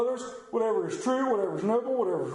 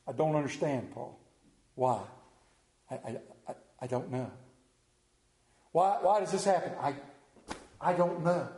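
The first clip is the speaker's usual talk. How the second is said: bewildered grief; 5 semitones lower, faster than usual. Acted. Voicing a grieving, confused believer.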